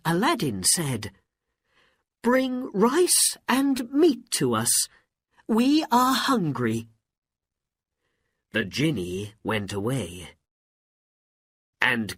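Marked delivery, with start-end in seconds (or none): 2.2-6.9 high, raised-voice order; commanding. Acted. Hungry Aladdin ordering the genie to bring food, commanding. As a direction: call out the order eagerly, pitched up.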